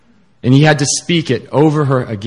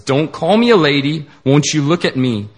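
a hammed-up mild scream of shame; mild acted scream; 2 semitones higher than usual. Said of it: "she screams at him".

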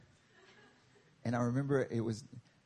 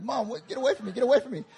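high, louder "get away from me"; annoyed kid; 10 semitones higher, 5 dB louder, faster than usual. Retold or imitated. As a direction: push mom away, rising to louder. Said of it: "I'm like".

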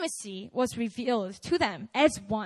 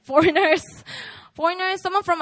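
laughing; 5 semitones higher, 8 dB louder than usual. Real, not acted.

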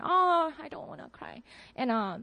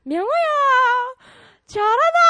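high, loud, cheerful father's greeting; loud, high imitation of a jolly father; jolly dad; 12 semitones higher, 10 dB louder than usual. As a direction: beam it like an overjoyed dad. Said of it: "he sounded so jolly".

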